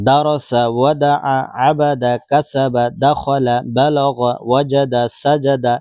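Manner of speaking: reciting the line in one breath; one breath reading. Shown as a demonstration. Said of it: "এক line এক নিঃশ্বাসে পড়বেন।".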